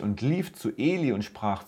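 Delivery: measured, solemn scripture reading to listeners; Bible story reading. Acted. Preacher reading First Samuel to his podcast audience, solemn reading.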